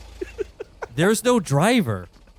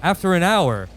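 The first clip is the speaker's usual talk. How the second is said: measured storyteller narration; game master narration. A narrator's reading. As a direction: set the scene like a game master. GM scene setting over music.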